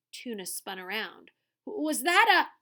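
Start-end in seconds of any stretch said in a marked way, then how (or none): 1.7-2.5 higher, louder alarmed stammer; startled stammer. Acted. Tuna spins round after the bang, startled. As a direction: stumble over it in fright.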